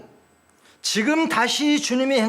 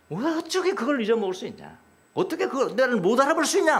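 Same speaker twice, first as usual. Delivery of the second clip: indirect rebuke; 4 semitones higher than usual. Acted. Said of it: "간접적으로 제자들을 꾸짖는 겁니다".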